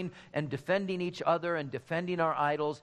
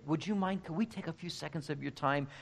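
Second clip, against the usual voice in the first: gentle, polite request, growing softer; politely tentative, fading to soft; kindly; 4 dB quieter than usual. Retold or imitated. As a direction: softly imitate a kind, hesitant evangelist. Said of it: "they would so kindly say".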